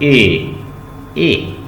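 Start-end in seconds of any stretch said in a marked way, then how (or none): 1.2-1.6 ए drawn out a little longer; long e sound. Shown as a demonstration. Teacher has the class repeat after her, lengthened. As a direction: hold ए a beat longer. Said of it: "उसको हमने थोड़ा लंबा करना है".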